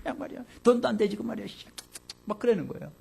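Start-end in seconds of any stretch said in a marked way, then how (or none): 0.0-1.5 higher, loud angry outburst at the parent; child talking back. Retold or imitated. Child talking back to a parent, shouting angrily. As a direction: yell it like a child defying a parent, then rattle off fast. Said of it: "자식이 부모에게 막 대들면서".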